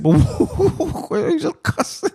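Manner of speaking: high squeaky disbelief through laughter; laughing, high-pitched incredulous parent; exasperated. Retold or imitated. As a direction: squeak out the question, half laughing. Retold exasperated father questioning his son.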